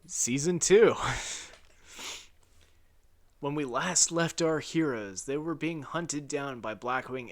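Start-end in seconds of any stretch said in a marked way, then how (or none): 0.1-0.9 big, higher-pitched title shout; mock-grand announcer yell; loud announcement. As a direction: belt out the section title. Announces the next section.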